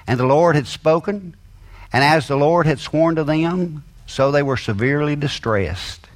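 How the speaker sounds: scripture reading. Acted. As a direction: proclaim the verses with weight.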